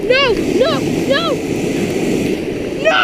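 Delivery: loud panicked no no no; screaming while falling. Real, not acted. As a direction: scream it, losing control. Sliding toward cliff.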